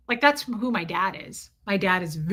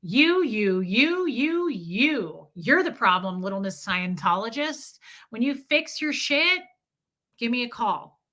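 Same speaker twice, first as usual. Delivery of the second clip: mocking ex-husband. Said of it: "That was my marriage all day long".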